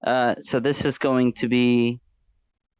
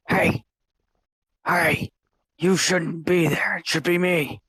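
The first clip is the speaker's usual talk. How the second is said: evil reflection voice; 6 semitones higher than usual. Acted. Evil reflection taunting self.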